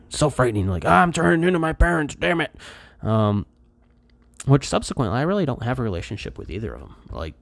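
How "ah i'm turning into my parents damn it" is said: mock dread. Dramatizes dread of becoming his parents.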